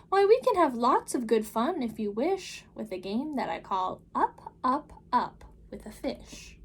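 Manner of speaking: put-on the Cat in the Hat calming the children, big and upbeat. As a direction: reassure the kids with a grand flourish. Cat proposes a game.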